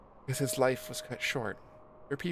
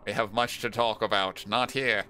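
put-on character voice; 3 dB louder than usual. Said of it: "just the voice that I landed on".

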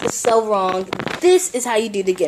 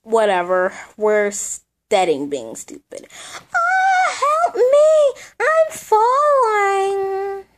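very high, wailing doll voice; whiny doll; 13 semitones higher, much slower than usual. Acted. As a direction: cry out like a hurt toy. Voices hurt doll character.

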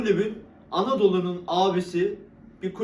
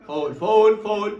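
shouting foul; 4 semitones higher, 7 dB louder, much slower than usual. Real, not acted. Calling for a foul.

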